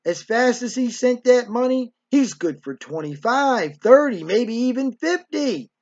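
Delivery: emphatic climb through bigger amounts; insistent, building eagerness; greedy urging. Retold or imitated. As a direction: imitate a mother talking up the haul. Greedy mother raises the figure.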